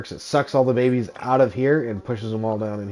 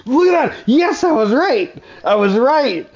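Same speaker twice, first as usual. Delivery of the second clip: loud, high-pitched gloating cheer; triumphant shout; 14 semitones higher, 6 dB louder, slower than usual. Real, not acted. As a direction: crow it out, thrilled to be right. Celebrating a correct time zone guess.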